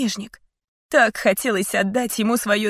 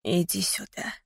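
soft call; 8 dB quieter than usual. A narrator's reading. Father calls daughter softly.

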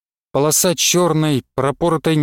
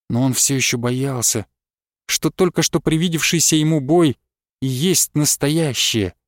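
plain reading voice

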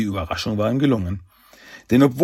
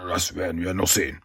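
kleinlaut, leiser werdende Drohung; ziemlich lahm; 3 semitones lower, 5 dB quieter than usual. A narrator's reading. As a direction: matt und ohne Überzeugung drohen. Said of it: "als er dann ziemlich lahm sagte". (lahme, leise Widerrede)

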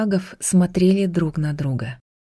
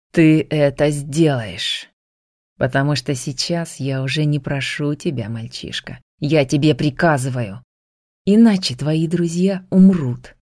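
зловеще; 2 semitones lower than usual. Acted. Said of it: "зловеще произнёс Кертис".

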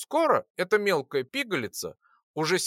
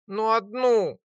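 higher begging little voice; plaintive plea; 7 semitones higher, 3 dB louder, slower than usual. A narrator's reading. Lora pleading with the alchemist, plaintive. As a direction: wheedle for just one. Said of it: "жалобно попросила маленькая летунья".

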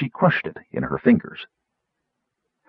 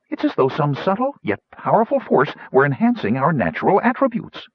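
lightly voiced, higher gnome explainer; theorizing gnome; 6 semitones higher than usual. Gnome expounds his theory to fellow explorers, lightly voiced. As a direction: explain eagerly, pitch climbing as the theory builds.

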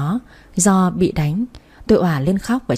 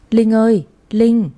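calling out; 4 semitones higher, slower than usual. Acted. Calling sister inside the house.

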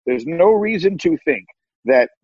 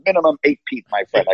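a light, self-mocking Chicago accent impression; terrible Chicago accent; faster than usual. Mimicking Chicago fans' SNL-style Chicago accent, lightly. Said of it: "I do a terrible Chicago accent".

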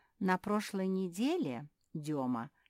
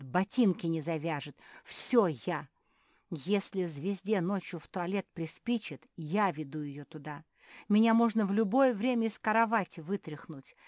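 angry; 2 semitones higher, 8 dB louder than usual. Acted. Beatrice rants about her employer.

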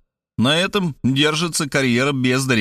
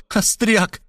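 higher, scornful single word; contemptuous spit; 10 semitones higher than usual. A narrator's reading. Markhaleva mocking Robert's joke, scornful higher jab. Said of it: "презрительно выплюнула".

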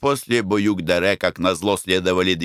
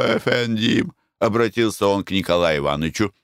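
put-on Armenian accent; 3 semitones higher, slower than usual. Karapet explains calmly.

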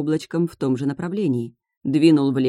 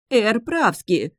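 лепет; 6 semitones higher, much slower than usual. A narrator's reading. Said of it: "пролепетал посол".

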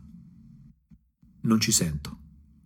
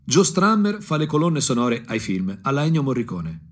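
più alto e più forte, con foga crescente; crescendo appassionato; 5 semitones higher, 4 dB louder than usual. Acted. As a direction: insegui il cantante idolo con tutta l'ansia. Chasing idol, rising passion. (voce accesa che sale di passione)

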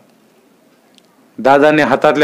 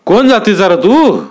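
stern village headman; 6 semitones higher than usual. A narrator's reading. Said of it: "दादा म्हणाले".

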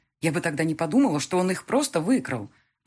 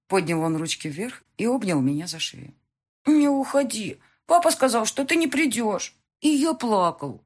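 put-on high, loud child's voice, overjoyed; small boy clinging to his mother; little son; 6 semitones higher, 5 dB louder than usual. Little son's lines.

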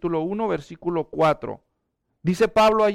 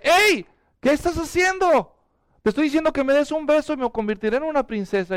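indignant frog; 6 semitones higher than usual. Acted. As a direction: protest from the pocket, then hurry the offer. Frog protests in his pocket.

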